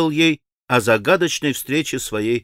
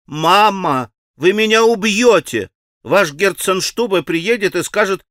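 raised, louder, pleading; frantic girl; 6 semitones higher, 5 dB louder than usual. Acted. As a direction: beg mama to hurry. Lise voiced, frantic.

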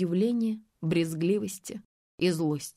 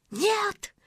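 yell; 13 semitones higher than usual. A narrator's reading. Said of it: "заорала Гульнар".

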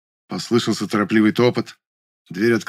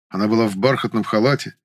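plain reading voice

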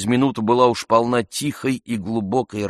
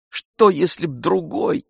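horrified; 10 semitones higher, 3 dB louder than usual. A narrator's reading. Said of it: "с ужасом прибавил он".

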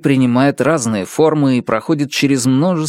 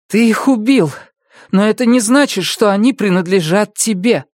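firm, pointed accusation; cold reproach; 10 semitones higher than usual. A narrator's reading. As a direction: lay the blame squarely on him. Annabelle answers the crow killer. (холодный упрёк)

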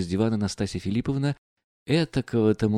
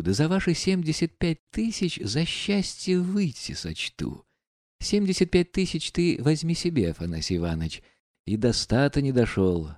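lightly voiced proud, mocking woman; bitter, taunting the men around her; Nastasya Filippovna; 3 semitones higher than usual. Настасья Филипповна продолжает монолог. (слегка сыгранная гордая, насмешливая героиня)

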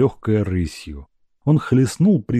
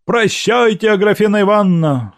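raised, higher voice, rushed a little; 11 semitones higher, 5 dB louder than usual. Acted. Evsey calling farewell to Agrafena with raised voice. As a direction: call her name out over the crowd. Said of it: "сказал протяжно, возвысив голос".

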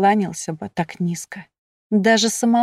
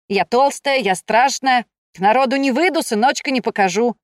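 higher-pitched mock lament; mimicked complaining wife; 4 semitones higher than usual. Shefer parodies his depressed wife to Iv, mock lament. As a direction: imitate a wife's list of complaints.

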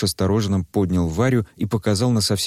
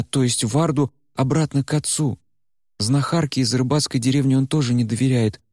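much higher, sly, eager order; Варя scheming; 7 semitones higher than usual. Acted. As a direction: relish the plan. Varya lays out plan. (высокий, азартный голос Вари)

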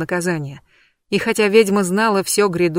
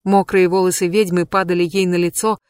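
ordinary delivery

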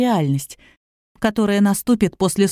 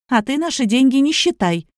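flaring up; 5 semitones higher than usual. Acted. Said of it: "взвилась Катерина".

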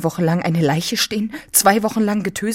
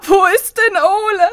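much higher, louder, overwrought; agitated; 7 dB louder than usual. Acted. Anna asking about Ole, high and overwrought. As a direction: ask it at a pitch of panic.

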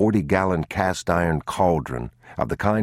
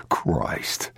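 hushed oath; 4 dB quieter than usual. A narrator's reading.

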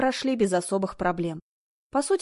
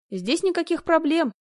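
dismissive; 9 semitones higher than usual. A narrator's reading. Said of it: "объяснила она и усмехнулась".

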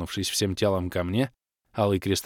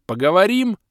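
кокетливый девичий голос; 11 semitones higher, 8 dB louder than usual. A narrator's reading. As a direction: tease him in a sweet high voice. Игривый вопрос красотки. (кокетливо, высоким голосом)

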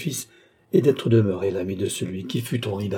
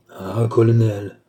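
cried out; 4 dB louder, slower than usual. A narrator's reading. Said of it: "s'écria Bastien".

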